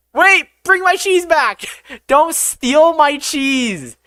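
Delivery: very high, loud mock protest; playful outcry. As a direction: cry out after a stolen treasure, half laughing. Calls after cheese being taken.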